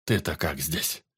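slow, low, fading question; weak forester. A narrator's reading. Dying forester asks the teacher, slow and low. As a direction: ask as if barely able to see him. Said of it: "спросил лесник".

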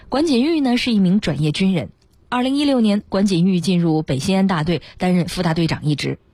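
measured, articulated report narration; radio feature reading. A narrator's reading. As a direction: present it as a prepared human-interest story. Reads out a prepared feature.

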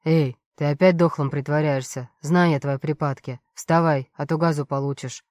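mock the fallen man like a bored thug; lightly voiced guard sneering at the demon; scornful guard.

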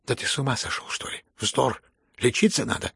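frightened cry. Acted. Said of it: "испуганно крикнула Лизавета Прокофьевна".

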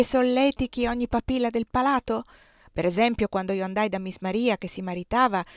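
put-on proud old cook bragging about her cakes, lightly done; lightly voiced Aunt Clo. Zia Clo belittles Jenny's cooking. (la zia Clo, voce di cuoca orgogliosa appena accennata)

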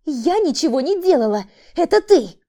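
hysterical woman. A narrator's reading. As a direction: shriek her innocence. (истерическое отрицание)

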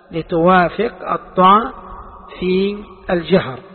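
teacher stressing الطاء. Shown as a demonstration. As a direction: lean on الطاء slowly. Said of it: "فأبدلت السين صادا".

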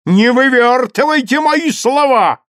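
громкий крик, заметно выше; кричит на мать мальчика; гневный крик. A narrator's reading. Герцог кричит на женщину. (гневно, в крик)

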